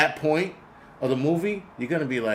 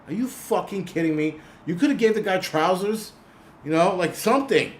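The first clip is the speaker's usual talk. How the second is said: higher-pitched, incredulous complaint; exasperated disbelief; 5 semitones higher than usual. Retold or imitated. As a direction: protest in mock disbelief. Acts out his exasperated movie reaction.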